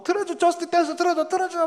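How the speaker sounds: dad imitating his youngest's fading tantrum; whiny little girl. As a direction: plead like a wavering child. Youngest still clinging to phone.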